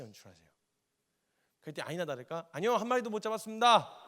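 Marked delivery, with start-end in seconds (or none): 2.5-4.1 high, loud shouted reply; hammed-up shout of no; disciples answering. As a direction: yell back from the boat. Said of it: "이렇게 대답을 했어요".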